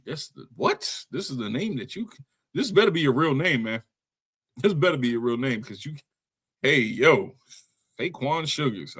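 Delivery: incredulous, high-pitched protest; mock disbelief. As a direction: react in baffled, swooping disbelief. Mock disbelief at a wrestler's name.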